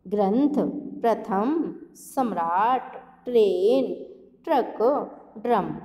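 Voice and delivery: ग्रंथ, प्रथम, सम्राट, ट्रेन, ट्रक, ड्रम each read clearly; teacher lists words for class; reading example words. Shown as a demonstration. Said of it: "रा का उच्चारण आता है".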